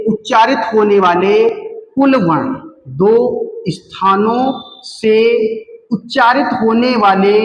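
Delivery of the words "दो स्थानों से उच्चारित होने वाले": दो स्थानों से spoken slowly, word by word; slow stressed repeat; slow, deliberate repeat. Shown as a demonstration. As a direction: spell out दो स्थानों से slowly for students. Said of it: "और बताना क्या है?".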